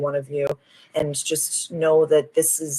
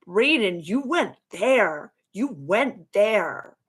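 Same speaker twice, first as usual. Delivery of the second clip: high, drawn-out, moved reaction; real emotional gush, slow and high; getting emotional; 5 semitones higher, much slower than usual. Real, not acted. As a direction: stretch each word slowly, pitched up with feeling. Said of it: "getting emotional just thinking about it".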